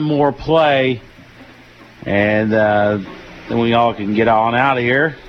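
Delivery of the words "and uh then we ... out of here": slight unintended Southern twang on "get on out of here". Real, not acted. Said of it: "a very southern twang in my voice".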